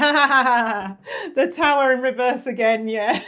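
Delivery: talking through laughter. Reading out a card that came up again, laughing while talking. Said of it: "I'm laughing my, my butt off right now".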